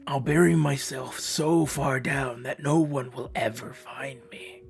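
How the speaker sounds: put-on slow, grim vow in a British accent; the doctor swearing to hide, said British. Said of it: "But British".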